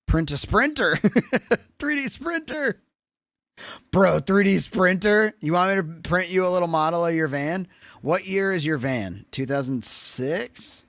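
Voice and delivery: high, loud, laughing amazement; excited disbelief. Real, not acted. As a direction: blurt it out high, tickled by the idea. Amused reaction to a viewer's request.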